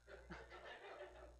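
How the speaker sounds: quiet airy chuckle at yourself; soft breathy laugh. Real, not acted. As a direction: laugh softly, embarrassed. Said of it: "get a little bit loony".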